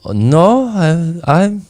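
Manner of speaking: high-pitched stammering denial, imitated; mock flustered protest. Short Harley rider objects to teasing about his height, mock flustered protest.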